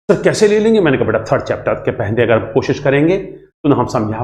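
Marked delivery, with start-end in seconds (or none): 0.1-0.8 higher, eager student asking; lightly voiced student question; curious student. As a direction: play a puzzled pupil asking sir.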